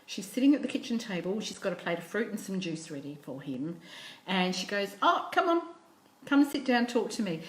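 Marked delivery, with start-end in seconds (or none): 5.0-7.4 high, lilting coaxing that settles down; acted kindly mum, bright high opening; inviting mum. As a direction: coax a child over to talk. Understanding mum invites son in.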